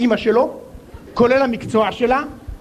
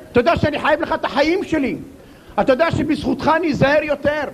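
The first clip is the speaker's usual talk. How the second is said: higher, gushing and effusive thanks; exaggerated gratitude; 3 semitones higher than usual. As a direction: pour thanks on him like a saint. Overly grateful driver thanks.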